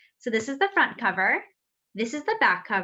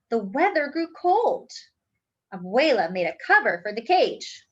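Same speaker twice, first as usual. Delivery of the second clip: lively, expressive read-aloud storytime voice; reading to children. A narrator's reading. Teacher reading a picture book aloud to the class, lively storytelling. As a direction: bring the picture book alive for the kids.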